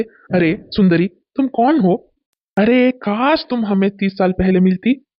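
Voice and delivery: flirting. Acted.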